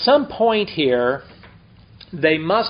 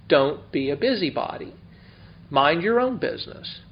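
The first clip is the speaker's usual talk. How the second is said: diplomatic restraint; 4 dB quieter than usual. Retold or imitated. Pastor counseling busybodies, diplomatically restrained. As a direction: say it gently but firmly, drawing out key words. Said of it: "you gotta be diplomatic".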